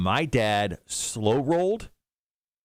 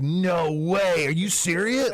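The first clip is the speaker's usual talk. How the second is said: higher-pitched incredulous reaction; mock disbelief; 6 semitones higher, slower than usual. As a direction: react like a kid half believing it. Retells his disbelief as a kid.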